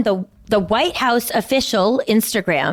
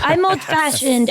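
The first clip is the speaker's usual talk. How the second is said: put-on Knick accent; 6 semitones higher than usual. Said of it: "the one that they had on the show, The Knick".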